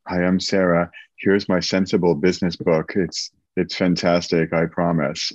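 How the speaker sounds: understated imitation of a dutiful author plug; mock podcast guest. Imagining the author plugging her book on a podcast, mock-dutiful. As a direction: lightly mimic a dull, sensible book pitch. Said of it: "and you would say".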